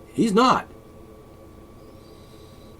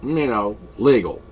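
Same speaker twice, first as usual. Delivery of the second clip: mocking quote; 5 dB louder than usual. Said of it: "people actually would say".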